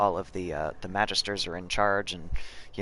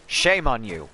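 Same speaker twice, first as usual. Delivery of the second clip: mock shame; 2 semitones higher, 4 dB louder, slower than usual. Real, not acted. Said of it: "I promise I'm joking".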